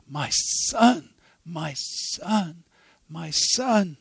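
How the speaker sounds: trembling lips. A narrator's reading. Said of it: "with trembling lips repeating".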